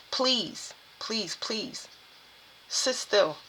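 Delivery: hushed, earnest begging; quiet, gentle entreaty; soft pleading. Real, not acted. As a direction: plead softly, word by word, with pauses. Pleading with the listeners.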